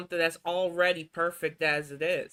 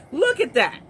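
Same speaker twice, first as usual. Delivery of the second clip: louder disbelief; 8 semitones higher, 5 dB louder than usual. Real, not acted. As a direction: Look at that, louder and higher. Staring at the clip, repeating.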